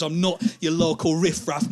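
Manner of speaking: firm, mildly indignant statement; indignant insistence. Acted. Drunk man leaning into the comic, mildly indignant. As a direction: state it firmly, still holding back. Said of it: "you repeat things".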